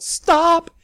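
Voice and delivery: high, loud cry of stop; shouted, very high and loud; sharp stop. Acted. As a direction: cut her off hard. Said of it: "put out a hand to block the words".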